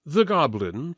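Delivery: plain reading voice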